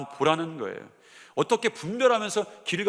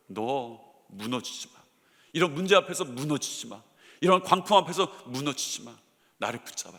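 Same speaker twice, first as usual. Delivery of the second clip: tender reassurance; 5 semitones lower than usual. Retold or imitated. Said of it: "하나님이 그 여호수아 앞에서 말하는 거예요".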